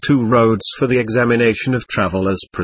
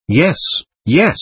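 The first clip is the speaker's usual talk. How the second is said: glad; 4 semitones higher than usual. A narrator's reading. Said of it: "gladly agreed".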